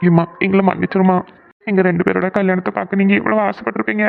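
mildly tearful apology; acted tearfulness. Son apologising to his mother for the wedding, tearful. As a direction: plead gently, close to tears. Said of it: "இப்ப எதுக்கு ரெண்டு பேரும் அழுதுட்டு இருக்கீங்க?".

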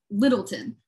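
Littleton with a weak, clipped "-tin" ending; local pronunciation. Acted. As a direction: say "Littleton" as one word, no "town" in it. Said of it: "all the locals in Little Town call it".

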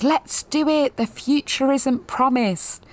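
a light mock of their keenness; mock earnest resolve. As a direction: talk yourselves into it brightly. Quoting their own resolve.

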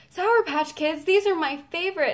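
high, thrilled imitation; retold excitement. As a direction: squeal a little over favorite candy. Voicing singer seeing favorite candy.

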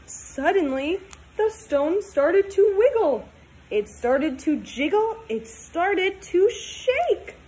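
put-on storybook read-aloud for kids; reading to children. Teacher reading a picture book to her class, storytime voice.

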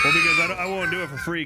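loud protest. Real, not acted. Loud protest in game chat.

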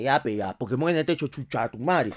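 fastidio grave y contenido; refunfuña bajo, como tío harto; tío amargado. Acted. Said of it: "mi tío cachirulo se amarga". (imitación de tío amargado, en voz baja)

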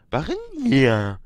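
slow, loud, high chant of the name; long, loud rallying shout; soldiers' cheer. A narrator's reading. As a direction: soldiers hail the princess. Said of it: "riefen nun auch die Soldaten".

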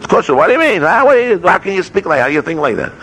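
high-pitched, incredulous scolding; indignant rebuke. Acted. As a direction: take someone to task, voice jumping up. Acting God's rebuke of Moshe.

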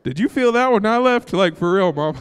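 real excitement, high and loud; excited. Real, not acted. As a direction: still buzzing from the outburst. Carried away after his whoop.

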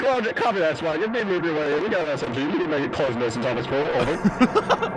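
officer radio callout; police radio. Acted. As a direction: report in like a cop. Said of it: "stop using the funny voices".

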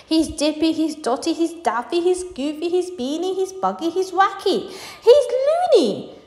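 high, panicky string of accusations; alarmed high-pitched name-calling; frightened chorus. A narrator's reading. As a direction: rattle them off up high, building to a cry. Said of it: "in the chorus of frightened shouting".

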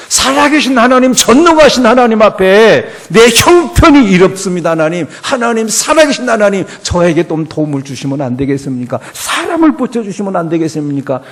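loud, high pleading cry to God; pleading prayer. Retold or imitated. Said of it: "이렇게 하나님 앞에 부르짖어야". (하나님께 부르짖는 간절한 기도)

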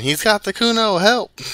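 high, loud panicked yelling; shouting for help. Acted. Boy yelling that the cop grabbed Kuno, loud shout. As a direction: cry out to the whole yard. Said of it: "The boy joins in".

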